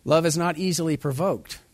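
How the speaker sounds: a ringing sermon line; scripture proclamation. Shown as a demonstration. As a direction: declare the verse firmly. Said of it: "proclaiming the verse".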